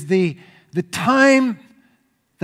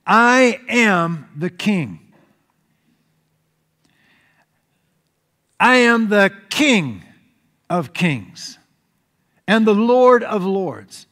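announcing; slower than usual. Retold or imitated. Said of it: "Jesus was now announcing".

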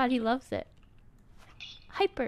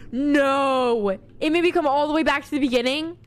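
frustrated outcry; 4 dB louder than usual. Real, not acted. Sent back to start.

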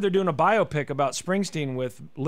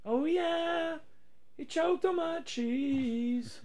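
high silly voice; 10 semitones higher, much slower than usual. Pretend. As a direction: croon it high and slow.

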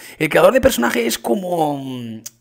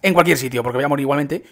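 ordinary delivery

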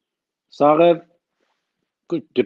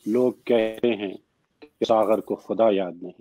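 slow, measured couplet recital; slow Urdu verse with pauses between phrases; poetry recitation; slower than usual. Acted. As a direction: recite the verse unhurriedly, letting each phrase settle.

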